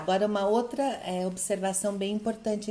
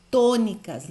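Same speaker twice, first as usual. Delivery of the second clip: tônicas said much louder with a falling close; emphatic; 7 dB louder than usual. Shown as a demonstration. Teacher stresses tônicas to drill the rule. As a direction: punch tônicas hard. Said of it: "Lembra o que é que é tônica?".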